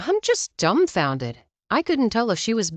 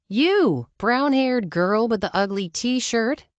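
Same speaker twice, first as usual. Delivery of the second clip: hillbilly call; 4 semitones higher, slower than usual. Retold or imitated. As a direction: call across the store, hillbilly style. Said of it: "in a hillbilly mating call".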